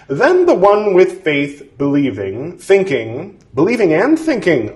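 measured, deliberate scripture reading; formal reading aloud. Acted. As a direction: read it like an old formal text. Reads scripture text aloud.

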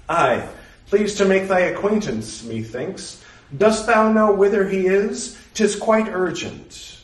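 a proud, puzzled maiden from another age; Blythe, archaic young woman. Acted. Blythe voiced in archaic speech.

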